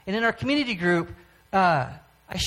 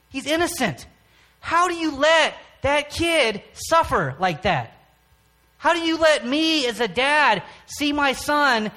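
retold angry pleading at God; 6 semitones higher than usual. A father in his car railing at God over his sick son, pained and accusing. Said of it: "just yell at God".

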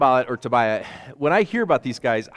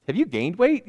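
higher, needling mock question; raised voice of a coworker mocking a dieter; teasing coworker; 9 semitones higher, 3 dB louder than usual. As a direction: poke at them about their weight.

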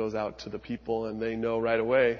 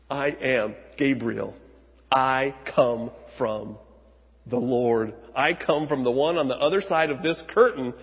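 emphatic angel Gabriel; 4 dB louder than usual. Acted. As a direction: announce yourself with authority. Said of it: "being emphatic about it".

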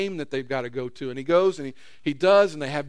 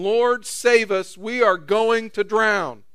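panicked plea; 5 semitones higher, 6 dB louder, slower than usual. Retold or imitated. Disciples wake Jesus in storm.

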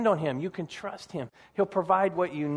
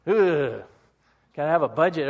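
mock groan; 2 semitones lower, 3 dB louder than usual. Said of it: "A lot of people don't like the idea of a budget".

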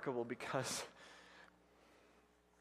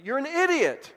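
higher, louder angry jab; angry thought; 11 semitones higher, 9 dB louder than usual. Retold or imitated. Boy silently curses the driver, angry outburst. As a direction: snap it at the driver in your head. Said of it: "And I'm thinking".

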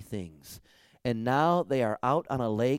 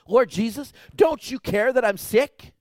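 much higher and louder pleading cry; desperate plea; 11 semitones higher, 9 dB louder than usual. Retold or imitated. Preacher voicing a sick believer crying out to Jesus, pleading.

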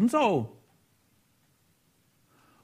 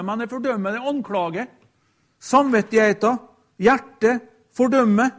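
weight on "fordømmer", with the last one louder; stress on fordømmer; 3 dB louder than usual. Shown as a demonstration. Preacher contrasting judging and condemning, stressing "fordømmer". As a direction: lean hard on "fordømmer". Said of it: "ikke bare at det dømmer".

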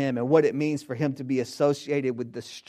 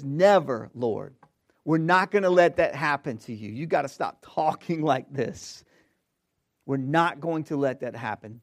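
Peter's rebuke; 6 dB louder than usual. Acted. Peter rebuking Jesus, acted quote.

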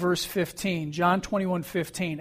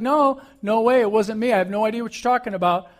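louder, higher, rushing denial; more emphatic denial; 4 semitones higher, 4 dB louder, faster than usual. Retold or imitated. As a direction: deny it hard and fast, raising the voice. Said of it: "he's a little more emphatic".

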